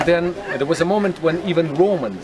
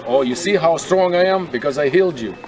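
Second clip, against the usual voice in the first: a hammed-up brag, a bit louder; mock boastful; 4 dB louder than usual. Guide mocking a wrong, bragging version of Jesus, boastful. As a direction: puff up and show off as a pretend proud healer. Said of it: "That's what he said?".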